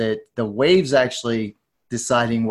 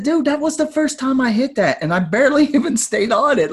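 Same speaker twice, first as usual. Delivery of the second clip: much higher, laughing disbelief; incredulous protest; 13 semitones higher than usual. Retold or imitated. Beginner tells the champion it was a fluke, high incredulous laugh.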